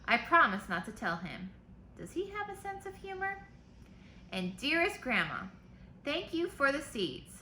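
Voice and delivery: put-on lively read-aloud for kids; reading to children. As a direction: read the letter brightly to the class. Teacher reads letters aloud.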